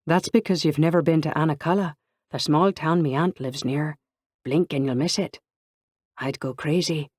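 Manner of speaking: a lightly put-on Irish lilt; teasing friends in a mock Irish voice; Irish accent continued. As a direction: keep up the playful Irish impression. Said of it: "She continued with the accent".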